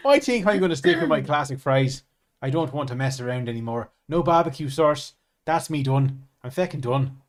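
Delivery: put-on Irish accent. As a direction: play at being Irish, lightly.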